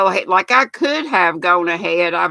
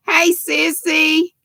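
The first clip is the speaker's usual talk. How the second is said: high, drawn-out hello to a sister; sing-song greeting; 8 semitones higher, slower than usual. Real, not acted. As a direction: stretch out the hey, calling her in. Greeting her sister on the stream.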